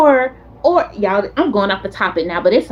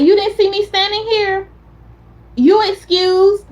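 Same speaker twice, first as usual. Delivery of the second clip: direct friend; 8 semitones higher than usual. Retold or imitated. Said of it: "she's very direct".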